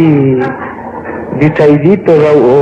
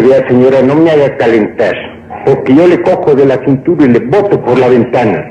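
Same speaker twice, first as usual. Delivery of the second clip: lower-pitched mock warning; threatening son-in-law; 4 semitones lower than usual. Husband warning his mother-in-law, understated threat. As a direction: lightly play a husband losing patience.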